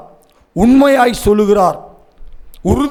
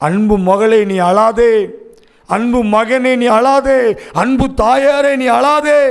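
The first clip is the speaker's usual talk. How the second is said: rising step by step with each appeal; building exhortation; 2 semitones higher, slower than usual. Real, not acted. Preacher tells daughter, son and mother not to weep, building fervently. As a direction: call to each one, climbing in pitch.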